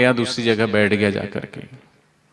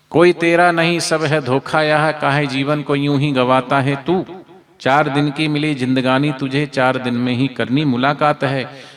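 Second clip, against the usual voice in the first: recited verse. Real, not acted.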